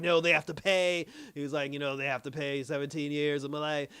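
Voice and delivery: a father snapping back at his daughter, loud; angry demand. Retold or imitated. Luthor refusing his daughter, a loud angry demand.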